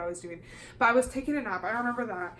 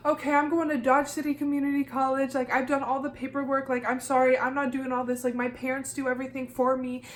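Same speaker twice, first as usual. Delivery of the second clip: mildly flustered retelling, pitched up; freaking out; 3 semitones higher than usual. Retold or imitated. Student telling the caller she's done all the paperwork, freaking out. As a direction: protest in a raised pitch, a touch panicked. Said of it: "I'm freaking out talking about this".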